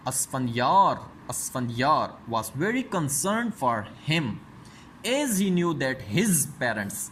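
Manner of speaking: very slow, word-by-word reading for students; slow textbook reading. Shown as a demonstration. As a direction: read it out slowly like dictation. Teacher reads English text aloud. (धीमी आवाज़ में पाठ पढ़ना, शब्द-दर-शब्द)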